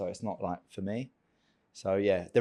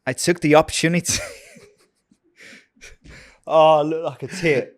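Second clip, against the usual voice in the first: put-on Californian voice, louder; hammed-up California accent; California accent attempt; 3 semitones higher, 5 dB louder than usual. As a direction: try reading it like a Californian.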